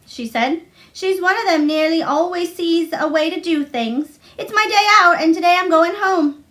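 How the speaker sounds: bubbling over about going home; glad Martha. Acted.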